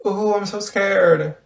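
slow, sarcastic pretend fright; drawn-out sarcastic taunt; mock fear. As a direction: draw it out to mock a threat. Mocks a threat to move.

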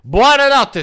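high, loud teasing goodnight; mock sing-song goodnight. Player going to bed, taunting his friend with a high loud goodnight.

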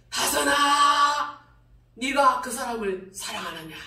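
drawn-out, otherworldly call of her name; God's voice. Retold or imitated. Preacher imitating God calling her name, slow and awed. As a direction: stretch the name slowly, hushed and awesome. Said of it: "들릴 듯 말 듯 하면서도".

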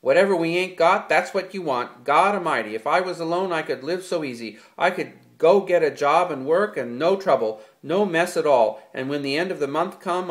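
loud, high furious tirade; angry rant. A narrator's reading. George to Lenny about freedom alone, furious and loud. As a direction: rant like a fed-up man venting everything.

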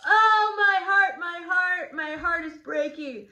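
teacher hamming up Juliet's heartbreak, high and loud; melodramatic heartbreak. Acted. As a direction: wail it like a soap-opera heroine. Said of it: "Juliet is really upset here".

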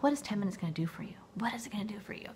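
skeptical whisper to herself; breathy sceptical aside; whispered doubt. Retold or imitated. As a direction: hush it like a doubting thought. Skeptical inner thought, whispered.

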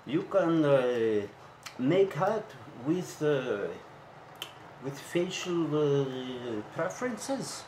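put-on slow broken English, Eastern European accent. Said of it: "a foreign guy came in with a heavy Eastern European accent".

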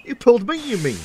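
high, loud squabbling retort; arguing. A narrator's reading. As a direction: argue back, pitched high. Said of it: "argued Ben".

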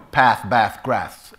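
"path, bath, grath" with short Cornish vowels; Cornish accent. Shown as a demonstration. Actor shows how people from Cornwall spoke, Cornish accent. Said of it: "like the people who came from Cornwall".

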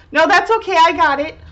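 high, breezy little grown-up; grown-up kid voice. Retold or imitated. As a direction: copy the child's confident reply, brightly. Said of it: "talking, uh, so adultish now".

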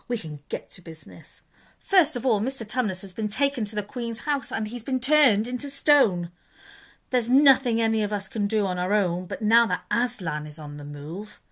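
friendly storybook beaver sharing urgent news; lightly voiced Mister Beaver.

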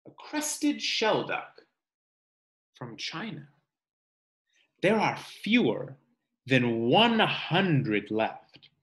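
measured read-aloud voice for a class; reading to children. Acted. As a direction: read the book aloud to kids, slowing on each animal's name. Teacher reads book aloud.

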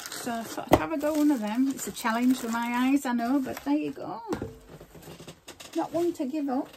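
talking while chewing gum; words around a piece of gum. Real, not acted. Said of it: "Do excuse me chewing gum".

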